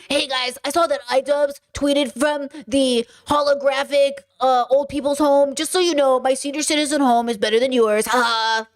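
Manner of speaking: lightly voiced elderly streamer; a hint of an old man; old people voice. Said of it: "That's my old people voice".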